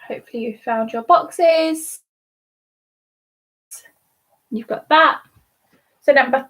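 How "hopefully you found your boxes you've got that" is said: breathy whisper to the viewers; whispered aside. Real, not acted. Host at a bingo stream whispering to viewers. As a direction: drop to a whisper, just for them.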